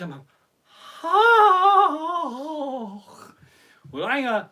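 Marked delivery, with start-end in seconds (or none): 1.0-3.0 mock deadpan oh. His flat reply to wife.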